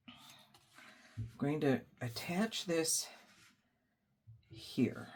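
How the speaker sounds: whispering. Real, not acted. Focused on fiddly craft step.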